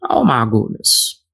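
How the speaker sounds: lightly mocking impression, drawn-out greeting; a touch of comic mimicry; Lucas impersonation. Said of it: "My two thousand Cat Williams impersonation".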